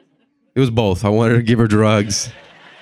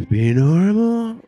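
much higher, slow, strained self-plea; high wobbly plea; 12 semitones higher, slower than usual. Retold or imitated. Comic pleading with himself while high, pitched up and slow. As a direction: beg yourself to be normal, voice going up. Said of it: "just trying to, like, just be normal".

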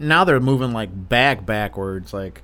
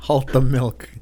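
mock stern command. Joking command to stop growth.

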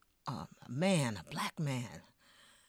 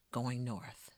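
fading refrain; 5 semitones lower, 6 dB quieter than usual. Acted. Repeated refrain.

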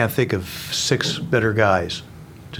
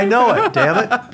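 laughing through tears; 13 semitones higher, 5 dB louder than usual. Real, not acted. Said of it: "You're gonna make me cry".

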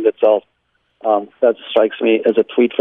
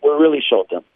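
dry, understated sarcasm; sarcastic; 3 semitones higher than usual. Real, not acted. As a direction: repeat the mock boast with light irony. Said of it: "I'm being sarcastic".

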